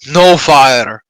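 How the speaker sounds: a rehearsed cry for help, not full scream. Acted. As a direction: call it out as a warning. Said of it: "I scream out".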